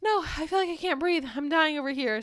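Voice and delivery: hammed-up can't-breathe protest; mock distressed cry. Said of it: "And I'm like".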